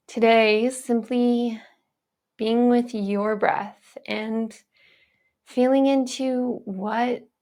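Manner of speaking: unhurried phrases with spacious pauses; guided meditation. Acted. Teacher inviting viewers to simply be with their breath, guided meditation. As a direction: lead the listener gently, phrase by phrase. Returns to guiding the breath practice.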